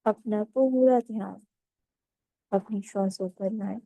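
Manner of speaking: calm, measured meditation guide with long pauses; guided meditation. Acted. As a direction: ease them into stillness, phrase by unhurried phrase.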